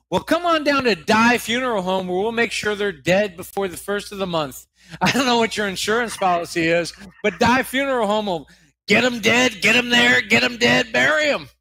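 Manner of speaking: building, punchy commercial pitch; cheesy ad read. Acted. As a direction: sell it like a late-night TV ad. Cheesy funeral home ad read.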